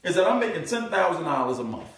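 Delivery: a hint of a stunned business owner; imitating a business owner. Speaker voicing an amazed business owner hearing the offer, rising disbelief. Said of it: "What do you think that business owner gonna say".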